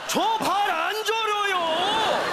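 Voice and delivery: slow, drawn-out comic protest; indignant denial. Acted. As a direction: stretch the denial out word by word. Customer denies having guilty conscience.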